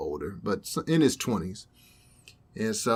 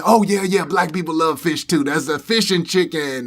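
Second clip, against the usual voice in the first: higher, louder put-on voice; louder, higher mock counter-guy voice; imitating the guy; 5 semitones higher, 7 dB louder than usual. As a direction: cheerfully add fish to the list. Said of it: "And he".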